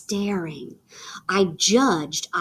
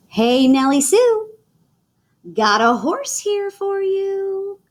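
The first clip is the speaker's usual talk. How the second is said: Daddy's proud surprise; 10 semitones higher than usual. Acted. Daddy presents surprise gift.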